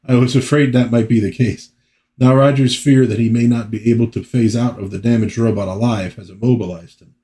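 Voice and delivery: corrected character accent, lightly voiced; Puck's accent. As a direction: deliver it in the character's proper accent. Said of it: "I'm doing the wrong accent for Puck".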